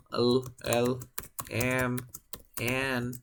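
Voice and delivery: "L", "M", "N" dichas por separado, con pausas; sonidos de consonantes. Shown as a demonstration. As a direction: nombrar "L", "M", "N" aisladas y alargadas. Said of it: "como el sonido de la L". ("L", "M", "N" de demostración, una por una)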